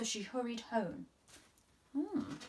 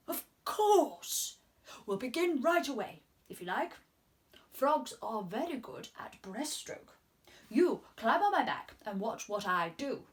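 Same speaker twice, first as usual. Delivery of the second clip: frog voice; 3 dB louder than usual. Acted. Frog answering, teaching.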